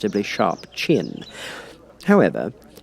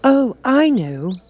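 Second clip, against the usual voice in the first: much higher, louder, slow cry; Alice exclaims, much higher; exclaiming; 6 dB louder, much slower than usual. A narrator's reading. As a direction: burst out with the answer. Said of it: "exclaimed Alice".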